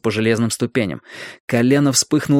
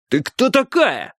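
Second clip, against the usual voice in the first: demanding; 11 semitones higher, slower than usual. A narrator's reading. Strike interrogates the girl.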